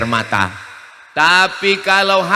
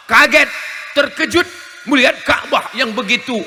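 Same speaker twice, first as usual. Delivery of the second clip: surprised; 7 semitones higher, 5 dB louder than usual. Retold or imitated. Describing shock seeing Kaaba.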